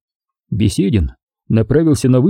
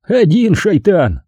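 peaceable agreement; 8 semitones higher, slower than usual. A narrator's reading. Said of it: "миролюбиво согласился Арсений".

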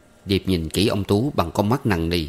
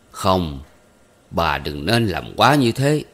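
calming her down; slower than usual. Acted. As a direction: soothe the angry wife, unhurried. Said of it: "Ông Tú can".

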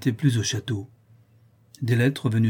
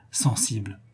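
whisper; 4 dB quieter than usual. A narrator's reading. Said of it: "confiding secret to baron".

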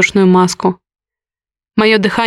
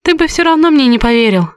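higher, sharp, words spat out; 5 semitones higher than usual. A narrator's reading. Heroine to Горецкий, spitting the words out. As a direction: spit it at him in resentment. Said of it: "выплюнула я".

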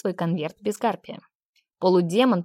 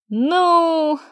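thoughtful drawn-out hesitation; 9 semitones higher, 7 dB louder than usual. A narrator's reading. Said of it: "задумчиво протянул Лир".

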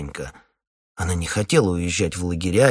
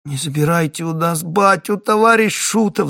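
put-on high, louder child's whine; whimpering child; 9 semitones higher, 5 dB louder than usual. Little boy whines to the captain for his dad. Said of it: "захныкал с палатей Прошка".

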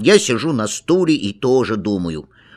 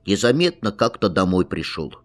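ordinary delivery, nothing marked

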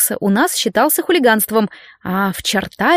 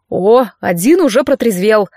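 usual speaking voice

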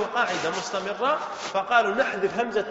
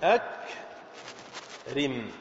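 أكرم stretched very long and low; very slow drawn-out word; 9 semitones lower, 5 dB quieter, much slower than usual. Shown as a demonstration. Teacher showing the original form, drawing out أكرم. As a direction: draw أكرم out at length, dropping low. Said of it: "فأصله".

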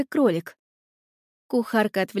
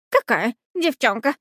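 stammering; 2 semitones higher than usual. A narrator's reading. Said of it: "переспросил он, заикаясь".

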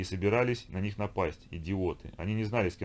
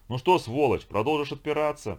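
brutal shouted interrogation, pitched up; loud angry konung; 7 semitones higher, 6 dB louder than usual. Acted. Konung yells at the captain while trampling him, furious shout. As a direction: bark it at the beaten captain. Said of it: "громкий голос конунга".

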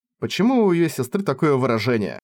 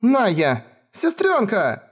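screaming her name; 9 semitones higher, much slower than usual. Acted. Lemil crying out to her wounded sister, screaming her name. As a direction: call out to her across the field. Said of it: "закричала".

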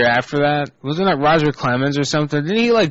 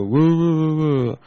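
mock yell at dog; 3 semitones higher, slower than usual. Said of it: "you yell in his face and go".

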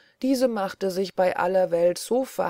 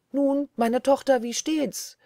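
higher, louder call to the daughter coming home; 7 semitones higher, 4 dB louder than usual. A narrator's reading. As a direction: call out eagerly across the yard. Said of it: "rufte sie ihr entgegen". (laut und höher gerufen)

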